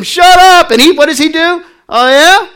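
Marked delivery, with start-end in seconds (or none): 0.0-0.7 much higher, louder angry yell; crowd yelling. Retold or imitated. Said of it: "people are yelling at him". 1.9-2.5 much higher, louder, drawn-out call; shouting louder. Retold or imitated. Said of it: "he just gets louder".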